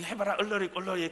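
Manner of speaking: put-on 얼러리 꼴러리 teased in a mild childish singsong; singsong taunt. Older boy mocking a younger kid, in a mild singsong taunt. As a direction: tease like a kid daring a friend. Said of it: "막 이".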